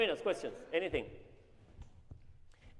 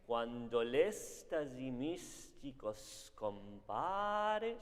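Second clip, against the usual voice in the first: spoken text; much slower than usual. Shown as a demonstration. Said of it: "just say the text".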